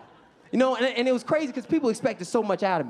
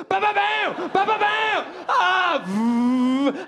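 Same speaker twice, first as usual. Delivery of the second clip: loud, high mimicked gunshots and speeding car; imitated gunfire and scream; 12 semitones higher, 5 dB louder, much slower than usual. Driver hit by a drive-by, mock gunfire and yell. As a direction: act out shots, a yell, a car roaring off.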